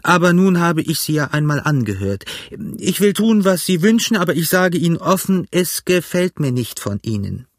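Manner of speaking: a squire's irritated protest, rising high mid-speech; huffy gentleman giving in; lightly voiced indignant squire. A narrator's reading.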